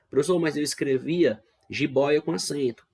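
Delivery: protesting student. Pretend. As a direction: imitate a pupil piping up to object. Teacher voices a protesting student. (imitando um aluno que contesta, voz mais aguda)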